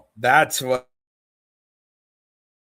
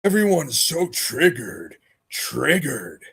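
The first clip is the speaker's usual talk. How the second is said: mock taunt; slower than usual. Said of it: "impression of him".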